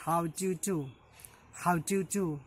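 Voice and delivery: words run together quickly. Shown as a demonstration. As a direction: say it as one quick, linked phrase. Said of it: "if you just speak it faster".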